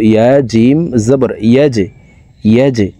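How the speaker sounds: "জে" bounced out with a push; letter drill with a qalqalah bounce on "জে"; pushed Jim. Shown as a demonstration. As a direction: spell it out, giving "জে" a firm echoing release. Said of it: "ধাক্কা দিয়ে উচ্চারণ করব".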